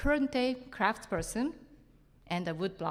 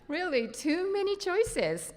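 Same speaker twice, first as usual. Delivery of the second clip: laughing; 10 semitones higher than usual. Real, not acted. Amused after laughing.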